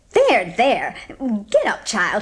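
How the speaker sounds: lightly voiced, soothing old neighbour; Mrs. Lynde softened. Mrs. Lynde forgiving Anne, lightly soothing. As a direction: reassure the kneeling child.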